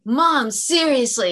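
put-on teen daughter cringing at her mom in front of the teacher; embarrassed teen groan. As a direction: drag out Mom like a mortified teenager. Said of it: "And she was all embarrassed".

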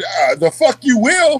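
slow, laughing mock shout; mock tough retort to sergeant, laughing; laughing defiance. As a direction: defy him while cracking up. Retold standoff with sergeant.

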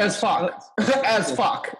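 laughing through the words. Real, not acted. Laughing agreement with friends, laughing. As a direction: chuckle it out.

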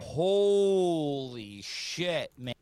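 slow, drawn-out amazed holy shit; stunned. Real, not acted. Guest stunned after the rant, slow amazement. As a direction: let the shock stretch out.

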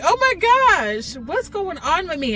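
imitated crying. Woman retelling her breakdown before she was saved, imitated wailing. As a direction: wail it as a retold breakdown. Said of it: "I'm on the ground crying".

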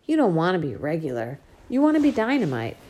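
father comforting his crying daughter; tender comforting father. Acted. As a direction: hold her and reassure her.

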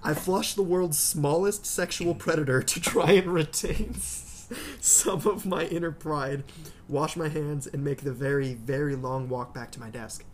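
slow, deliberate mock-solemn narration; dramatic story reading. Reader telling of the walk back to desk, deliberate narration. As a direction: draw out the words for comic gravity.

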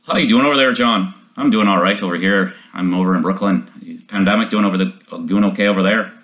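American trying out an Irish accent; Irish accent attempt. Shown as a demonstration. Podcast host shows his Irish accent to an Irish guest, attempted brogue. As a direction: put on a light Irish accent, conversational. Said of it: "I can do a great Irish accent".

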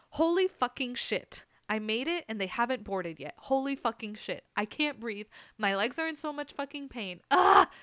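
breathless, rising to a scream at the end; frantic relief. Retold or imitated. Reading her all-caps text to her parents, frantic. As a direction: burst out the panicked relief.

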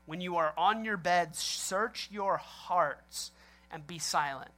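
slow, measured scripture recital; scripture reading. Retold or imitated. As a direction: read the verse slowly, letting each phrase land. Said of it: "Psalms four four says".

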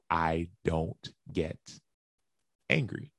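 very slow, spaced out word by word; insistent denial. Retold or imitated. Client denying anger to his counselor, insistent denial.

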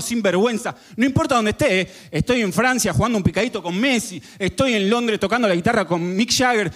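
preach, building toward the climax. Acted. Preacher urging the audience to share the Savior, building fervor.

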